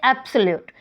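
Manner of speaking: एब्सोल्यूट as "AB-suh-lute"; first-syllable stress. Shown as a demonstration. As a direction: lean on the एब of एब्सोल्यूट. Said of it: "first syllable है उसके ऊपर ही लगी है". (एब्सोल्यूट के पहले सिलेबल पर ज़ोर)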